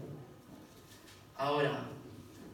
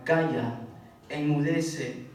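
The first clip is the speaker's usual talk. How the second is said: stern command; 6 dB louder, much slower than usual. Retold or imitated. Jesús reprende al viento.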